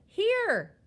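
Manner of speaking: high, loud answering shout; loud childlike reply; calling back. A narrator's reading. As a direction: shout back so dad hears.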